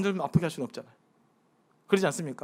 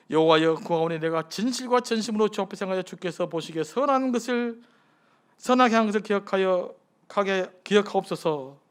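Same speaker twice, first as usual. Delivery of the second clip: scripture prayer read aloud. Acted. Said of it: "주님께 기도합니다".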